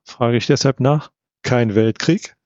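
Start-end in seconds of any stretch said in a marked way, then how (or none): 1.4-2.4 mildly emphatic stress on "Kein Weltkrieg"; "Kein Weltkrieg" pointedly repeated, understated; clear emphasis. A narrator's reading. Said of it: "wiederholt er mit deutlicher Betonung".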